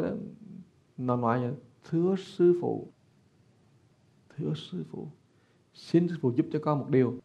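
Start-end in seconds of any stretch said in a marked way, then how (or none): 1.9-7.1 ghost's strange voice. Retold or imitated. Possessing ghost begging the monk for help, in a lightly voiced eerie plea. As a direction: let a spirit plead through a borrowed voice. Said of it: "Cái giọng nó khác".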